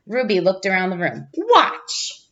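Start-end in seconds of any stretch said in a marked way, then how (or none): 1.4-2.2 eager. Acted. Child calls out to class.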